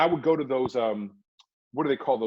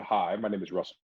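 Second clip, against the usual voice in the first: low, deep resonant announcer voice; profound and deep; 8 semitones lower, 5 dB quieter than usual. Retold or imitated. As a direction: sound deep and important on the phone. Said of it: "try to sound all, uh, profound and deep".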